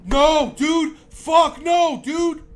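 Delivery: loud, high shout of no; real scared yell; panicked shout. Real, not acted. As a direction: yell in fright. Game scare, yelling refusal.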